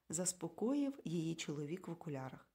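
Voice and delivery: ordinary delivery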